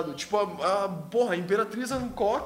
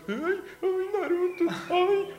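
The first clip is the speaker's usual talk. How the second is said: put-on swooning anime girl pleading; whiny lovesick girl; 9 semitones higher than usual.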